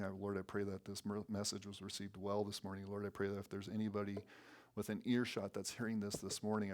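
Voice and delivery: steady, earnest pastor's prayer with little pitch movement; closing prayer. Real, not acted. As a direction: pray aloud for the congregation, evenly and sincerely.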